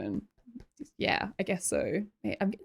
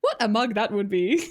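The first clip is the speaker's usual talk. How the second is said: light British imitation, amused; British accent; 4 dB louder than usual. Streamer imitating the donation voice for chat, British accent. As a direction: put on a playful British accent. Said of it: "like, a British".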